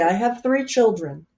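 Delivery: put-on mother's New York accent, proud list with pauses. Mother joking to friends about her three children, New York accent. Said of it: "your accent came, that was very good".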